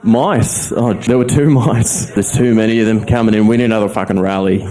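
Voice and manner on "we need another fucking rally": mouse voice. Acted. Mice voiced as racists.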